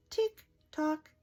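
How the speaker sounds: high ticking clock; clock tick tock. Acted. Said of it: "He can go like a clock".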